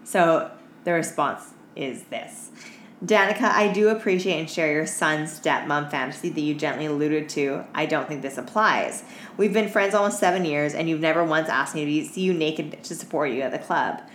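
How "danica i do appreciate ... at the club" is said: brisk reading of a listener email; email read aloud. Acted. Host reading a listener email to her cohost, brisk dry read.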